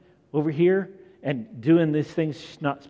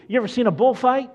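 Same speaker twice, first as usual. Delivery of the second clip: excited; 10 semitones higher, 6 dB louder, faster than usual. Real, not acted. Animated question launching the bullfight picture.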